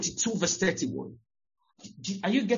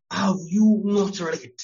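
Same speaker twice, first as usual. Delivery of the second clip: louder emphatic repeat; 6 dB louder, slower than usual. Shown as a demonstration. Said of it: "Jesus tells them".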